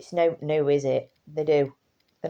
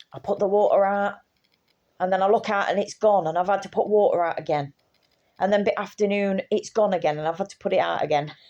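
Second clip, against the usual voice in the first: lightly voiced neighbour, fake grumbling; mock annoyed; 4 semitones higher, 4 dB louder than usual. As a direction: grumble a little, as if it's a chore. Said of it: "She says it like she's annoyed".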